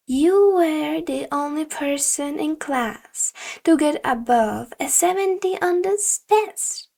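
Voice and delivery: hint of a disappointed sensei; stern teacher. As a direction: scold the student with mild disapproval. Teacher accusing student.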